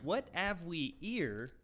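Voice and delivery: slow Cockney imitation dropping the H's; lightly put-on Cockney accent; mock Cockney. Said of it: "That's how they say it".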